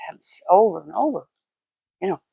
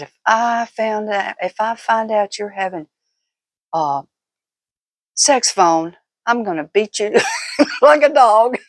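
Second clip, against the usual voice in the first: teasing mock threat; 3 semitones higher than usual. Wife teasing husband about phone calls, playful mock threat. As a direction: tease him with a half-joking threat of a beating. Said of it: "I was teasing him here".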